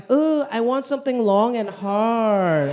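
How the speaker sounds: slow, breathy mock seduction; sultry model parody. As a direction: purr it like a fake bot model. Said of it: "some I G booty model saying".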